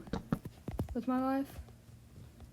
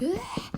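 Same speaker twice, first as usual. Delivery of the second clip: Godzilla roar; 10 semitones higher than usual. Retold or imitated. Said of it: "like Godzilla type stuff".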